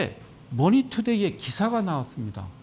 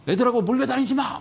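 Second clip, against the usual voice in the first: mock mother's yell, higher and louder; mom yelling; 5 semitones higher, 4 dB louder than usual. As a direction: scold the kids like a nagging mom. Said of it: "막 이랬잖아요". (엄마가 애들한테 소리치듯 흉내 낸 호통)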